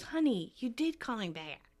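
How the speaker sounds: softly reassuring, imitated; mild tender reassurance; sweet. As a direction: say it gently, easing off. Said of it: "Chandler says something really sweet".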